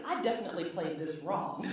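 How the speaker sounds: rueful laugh running through the words. Real, not acted. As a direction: laugh at how badly it went. Laughing at her own misjudgment.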